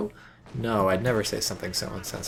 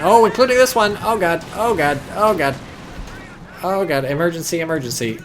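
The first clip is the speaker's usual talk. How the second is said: panicked alarm; 7 semitones higher, 6 dB louder than usual. Real, not acted. Sudden threat on the map.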